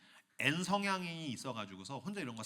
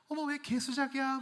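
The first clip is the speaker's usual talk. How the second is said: coy laughing florist; 10 semitones higher than usual. Acted.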